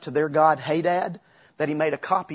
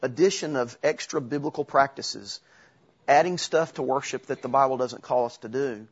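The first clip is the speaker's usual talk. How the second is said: said again slowly. Shown as a demonstration. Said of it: "I'll say that again slowly".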